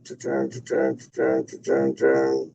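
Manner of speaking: soft, even "ta-ta" filler; idle little mouth rhythm; rhythmic thinking noise. Real, not acted. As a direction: tap out syllables while stalling. Fills time while thinking.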